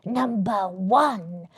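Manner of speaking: whispered, slow hiss. A narrator's reading. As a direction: hiss it like a sneaking thief. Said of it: "the old Grinchy Claus hissed".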